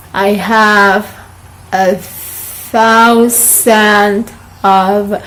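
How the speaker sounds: very slow "thousand" in a Peruvian accent. Shown as a demonstration. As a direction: drag out the Peruvian learner's phrase. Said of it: "it's kind of Peruvian accent".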